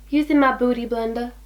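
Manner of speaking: put-on playful touch of an American accent. Naming the makeup sponge while blending, in an American accent. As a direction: slip into American for the product name. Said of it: "I always say that in an American accent".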